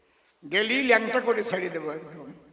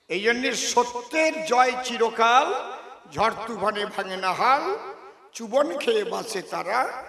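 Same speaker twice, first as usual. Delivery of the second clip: verse recitation. Acted. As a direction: recite it like a moral rhyme. (ছন্দে মাপা কবিতা আবৃত্তি)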